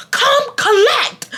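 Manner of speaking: high, slow mock yell; slow high call to Romeo; drawn-out call. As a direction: stretch it out, calling across the room. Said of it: "I kept screaming".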